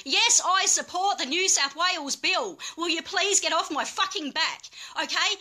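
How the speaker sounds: real exasperation at critics; exasperated outburst. Real, not acted. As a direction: let them have it, sick of being nagged. Fed up with harassing critics.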